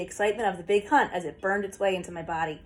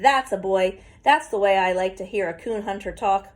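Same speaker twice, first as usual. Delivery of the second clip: pent-up; 4 dB louder than usual. Acted. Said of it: "In a pent-up voice".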